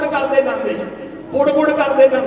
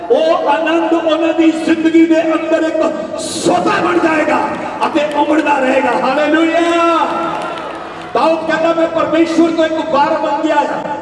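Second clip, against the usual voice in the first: fervent preaching; 3 semitones higher than usual. Real, not acted. Preacher tells congregation of lasting joy in life, fervent preaching. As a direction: preach it out to the whole hall.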